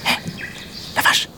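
tiny calling voice; a praying mantis hailing; tiny insect voice. A narrator's reading. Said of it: "une toute petite voix".

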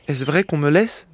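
slow, dazed, half-formed words; almost inarticulate. Acted. Freed convict asking in disbelief, slow and dazed. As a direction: say it as if talking in his sleep. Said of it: "d'une voix presque inarticulée".

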